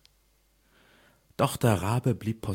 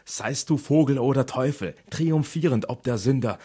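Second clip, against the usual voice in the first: higher and louder, crying out at the raven; 6 semitones higher, 6 dB louder than usual. Acted. The grieving narrator demands of the raven, crying out. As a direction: hurl the question at the bird.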